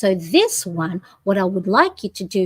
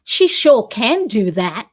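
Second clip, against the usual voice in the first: defending a friend; 3 semitones higher than usual. Pretend. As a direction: stand up for her, firmly. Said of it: "Would you go, defending your friend".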